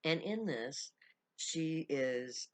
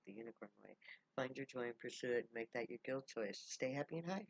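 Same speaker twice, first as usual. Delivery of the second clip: closing blessing; faster than usual. Acted. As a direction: bless the listener gently, letting it fall away. Blessing in Zion's voice.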